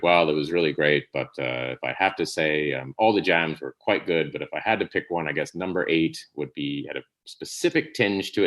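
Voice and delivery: a hint of a smooth politician hedging his verdict; pompous politician. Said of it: "doing that great politician".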